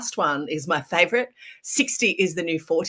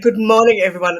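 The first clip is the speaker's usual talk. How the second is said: bright loud greeting; 3 semitones higher, 9 dB louder, faster than usual. Real, not acted. Guest greeting the whole audience.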